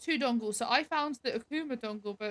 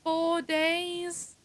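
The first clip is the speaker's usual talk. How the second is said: surprised; 7 semitones higher, 4 dB louder than usual. Real, not acted. Disbelief at how long it lasts.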